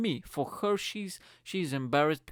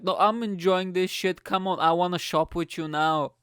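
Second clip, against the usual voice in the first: loud, higher, gleeful; gleeful loud refusal; 5 semitones higher, 6 dB louder than usual. Retold or imitated. Boyfriend refusing to leave her, loud and gleeful. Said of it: "I was like".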